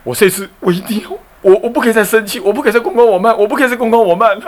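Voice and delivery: self-admonishing resolve. Retold or imitated. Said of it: "他开始有点".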